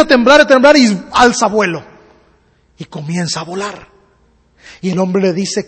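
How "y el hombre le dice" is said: ordinary delivery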